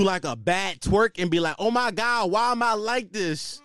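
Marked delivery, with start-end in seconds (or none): 1.6-3.6 mocking girl voice. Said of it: "make a weird voice".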